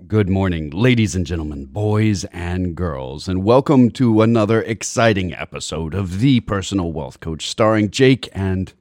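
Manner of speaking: big, bright radio announcer voice; hyped radio announcer. Acted. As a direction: sell the show open like a DJ. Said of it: "overly hyped and, generally, radio voice manner".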